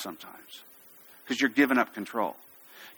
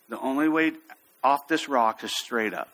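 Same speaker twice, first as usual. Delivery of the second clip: calm firmness. Shown as a demonstration. Instructor telling climber the only way is up, calmly firm. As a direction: state it evenly, allowing no argument. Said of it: "I'd say it with that tone of voice".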